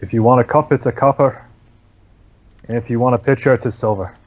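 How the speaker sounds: lightly voiced, listless barkeep; dull hollow monotone. Barkeep repeats his prices when asked for a bed, dull monotone. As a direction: repeat it by rote, a touch hollow. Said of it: "dull, monotone, hollow voice".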